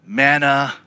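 whiny repeated manna, fading to a mutter; a hint of a sulky chant; mock whine. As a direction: drone manna like a bored complainer. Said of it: "what it sounds like to God".

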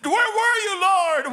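angry prayer. Acted. Preacher crying out lament prayer.

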